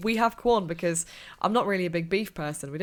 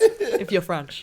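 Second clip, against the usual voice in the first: laughing; 5 dB louder, much slower than usual. Real, not acted. Joking French pronunciation.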